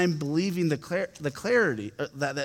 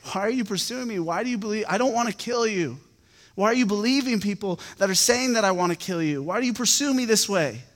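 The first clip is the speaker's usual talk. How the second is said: higher-pitched, imploring questions without shouting; mild acted appeal; retold pleading; 5 semitones higher than usual. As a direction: plead like a wronged man, voice raised in pitch only. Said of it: "he's just pleading with Saul".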